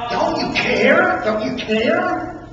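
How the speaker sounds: pleading, pitch lifted on the first ask; frightened disciples begging their sleeping master; desperate plea. Acted. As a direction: beg him to wake and care.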